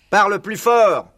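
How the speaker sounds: high, loud, slow demand; hard-of-hearing shout. A narrator's reading. Deaf Bean ordering Buns, loud drawn-out shout. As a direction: bellow it slowly as if deaf.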